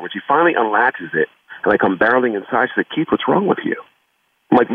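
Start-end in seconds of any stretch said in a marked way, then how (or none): 2.9-3.8 a hint of a worried mother, pitched higher; mother's voice. Mom asking young son what's wrong, lightly voiced higher.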